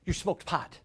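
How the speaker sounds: high, pouncing "gotcha" voice; accusing dad. Retold or imitated. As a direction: imitate a dad catching his kid out. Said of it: "And he went".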